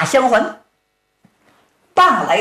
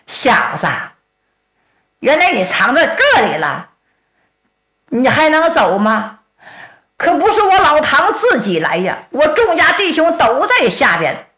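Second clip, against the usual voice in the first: bold Tang Tieniu. Acted. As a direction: bluff him into surrendering. Tang confronts the swordsman.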